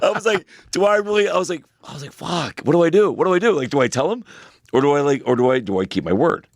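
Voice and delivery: high, laughing mock panic; a dad in a silly panic. Panicked dad retelling dilemma.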